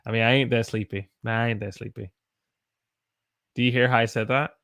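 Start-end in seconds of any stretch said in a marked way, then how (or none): 0.2-2.1 Southern "ain't", words run together; casual Southern US accent; Southern dialect. Shown as a demonstration. Southern teacher shows how her people talk, Southern accent. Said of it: "we say the word ain't".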